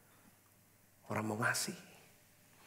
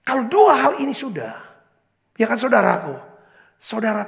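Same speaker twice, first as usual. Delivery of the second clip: higher and louder, driving sermon voice; full-force preaching; 7 semitones higher, 9 dB louder than usual. Acted. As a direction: preach it out to the congregation, slowed on key words. Preacher calling out.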